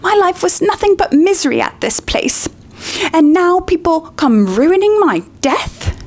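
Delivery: high, self-pitying wail; wailing lament. Acted. Myrtle laments to the trio, high wail. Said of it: "howled Myrtle".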